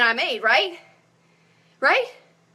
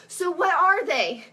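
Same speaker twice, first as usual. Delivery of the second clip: slightly winded talking; out of breath. Real, not acted. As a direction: talk while short of breath. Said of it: "I'm out of breath".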